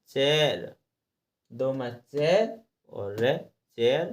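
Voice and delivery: चेयर built from "che" and "re" into "cher"; spelled-out wrong reading. Shown as a demonstration. Teacher spells it by the chart, चेयर becoming "cher". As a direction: sound out the syllables, then चेयर as "cher". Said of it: "क्या, क्या लिखा?".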